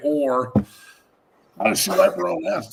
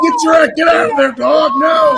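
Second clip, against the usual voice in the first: much higher, much louder shout; real yell at the dog; 13 semitones higher, 10 dB louder than usual. Real, not acted. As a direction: scream at the dog to get away. Yelling at dog on screen.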